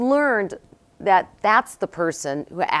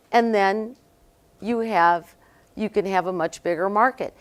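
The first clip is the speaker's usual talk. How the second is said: imitated Costa Rican accent; 4 semitones higher, 4 dB louder than usual. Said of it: "he says in his accent".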